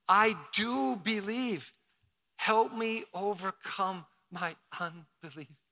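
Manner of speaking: slow, sincere congregational prayer. Shown as a demonstration. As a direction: say it slowly and mean it. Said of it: "Let's say it again".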